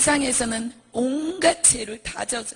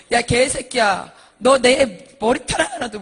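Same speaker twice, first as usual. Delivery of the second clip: loud, slow acted threat; acted furious cursing, drawn out; cursing thug; 10 dB louder, slower than usual. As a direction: bellow a gangster's warning. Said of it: "막 하면서 욕을 하는 거예요".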